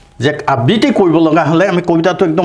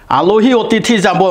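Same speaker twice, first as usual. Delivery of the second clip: slow, higher-pitched verse reading; poem reading; 6 semitones higher, slower than usual. Shown as a demonstration. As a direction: recite the line slowly for pupils. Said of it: "পাঠ কৰি দিছোঁ".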